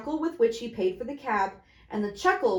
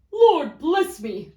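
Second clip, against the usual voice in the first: slow, louder stunned exclamation; as if breath were taken away; breathless surprise; 7 semitones higher, 8 dB louder, much slower than usual. Acted. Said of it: "cried the gentleman".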